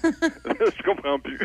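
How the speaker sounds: said through a laugh, high and slow; laughing disbelief. Real, not acted. Host laughs at the premier's news, giggling and baffled.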